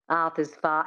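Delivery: flat, throat-placed Australian vowels; Australian accent with reduced mouth and lip movement. Shown as a demonstration. Coach restarting the practice phrase, flat Australian accent. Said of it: "reduction of the mouth and the lips".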